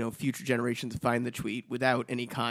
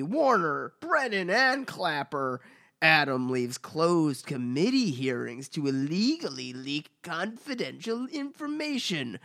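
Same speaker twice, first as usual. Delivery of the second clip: mock Trump voice; 4 semitones higher than usual. Reading Trump's tweet mockingly.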